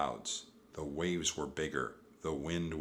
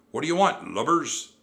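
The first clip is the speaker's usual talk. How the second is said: loud, raised, angry demand; gruff pirate captain; 7 semitones higher, 9 dB louder than usual. A narrator's reading. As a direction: challenge them like a pirate boss. Pirate captain confronts the children.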